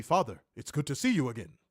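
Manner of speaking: measured, formal mock Samoan delivery; stilted Samoan-accented greeting; mock Samoan speech.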